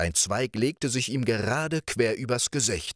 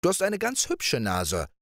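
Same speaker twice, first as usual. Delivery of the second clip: put-on higher, lively girlish voice; playful princess; 4 semitones higher, faster than usual. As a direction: coax him like a carefree young princess. Princess teases and plans.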